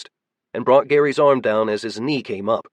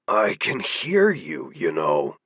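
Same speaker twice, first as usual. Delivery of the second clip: grousing; 6 semitones lower, slower than usual. A narrator's reading. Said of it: "groused Jake".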